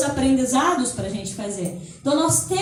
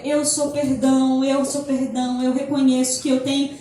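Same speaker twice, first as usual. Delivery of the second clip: gentle affirmation. Shown as a demonstration. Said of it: "eu comecei a dizer".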